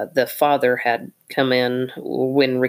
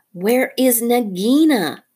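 slow, pressing mongoose question; insistent mongoose; 8 semitones higher, 4 dB louder than usual. Acted. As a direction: ask for the third time, impatient. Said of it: "for the third time".

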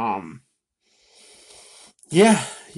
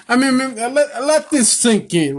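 high, loud, worked-up disbelief; incredulous rant; 10 semitones higher, 4 dB louder than usual. Real, not acted. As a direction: push it up like you can't believe it. Ranting about WWE booking.

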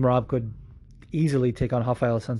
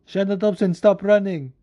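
mock call-out; 6 semitones higher, 4 dB louder than usual. Acting out fighter's online call-out.

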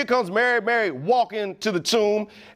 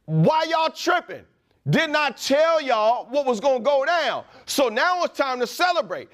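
high, exultant preaching voice; triumphant risen Jesus; 5 semitones higher than usual. Retold or imitated. Preacher voicing Jesus, high and triumphant. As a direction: proclaim the victory with swagger. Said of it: "Almost in a sense like".

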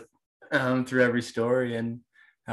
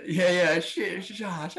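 laughing; 7 semitones higher, slower than usual. Real, not acted. Laughing at compliment.

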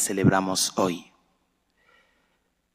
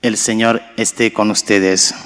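loud; 7 dB louder than usual. Real, not acted. Priest greets congregation aloud.

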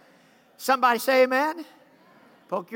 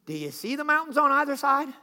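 sarcastic back talk. Retold or imitated. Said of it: "I'd be like".

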